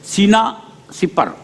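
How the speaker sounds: सिपर said slowly with an i; careful सिपर with i vowel; correct sina sipar. Shown as a demonstration. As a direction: stretch out सीना सिपर, sipar not supar. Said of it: "सुपर नहीं".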